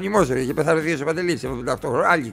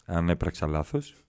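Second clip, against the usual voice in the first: mock meek submission; 13 semitones lower, 11 dB quieter than usual. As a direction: shrink and apologise to the boss. Meek reply to boss, pretend.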